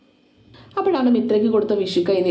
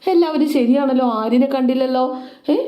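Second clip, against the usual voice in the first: surprised father; 5 semitones higher than usual. Acted. Father notices son missing.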